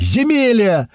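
high, drawn-out hail; joyful yell. A narrator's reading. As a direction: holler to a countryman in delight, pitched high. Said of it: "орал Страйк".

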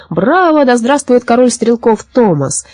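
high bravo, then slow acclaim; stretched-out, exultant hailing; enthusiastic crowd cheer. A narrator's reading. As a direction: cheer the new champion. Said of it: "бежала за ними с криками".

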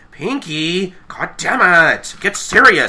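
loud, high mock scolding; Twilight scolding. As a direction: imitate a fed-up leader snapping. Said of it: "Twilight's just like".

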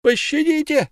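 very high, desperate plea; screaming for mercy. Acted. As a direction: shriek for mercy. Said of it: "кричал рыбник".

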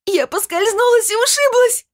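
very high, loud, near-sobbing scream; frantic scream. Acted. Svetlana screaming at the medium that she is alive. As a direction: insist on being alive at the top of your lungs. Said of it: "закричала она".

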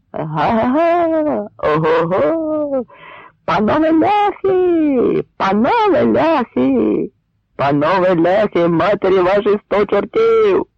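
slow, high, drawn-out mocking yells; taunting shout. Cossack taunting the Poles on the rampart, in long mocking yells. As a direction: bellow across at the enemy camp.

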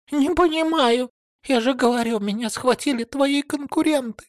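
high, panicked pleading woman; high frantic denial; desperate plea. A narrator's reading. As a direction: beg for your life. Woman keeps denying, frightened.

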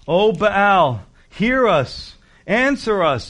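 high, loud pleading cry. Retold or imitated. Baal's prophets cry out to their silent god, loud pleading. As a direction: cry out desperately to an idol. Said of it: "and they were crying out".

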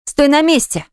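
high frightened shriek. A narrator's reading. Eva shrieks at Artur to stay back, high and scared. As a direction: shriek it out in panic. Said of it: "взвизгнула она".

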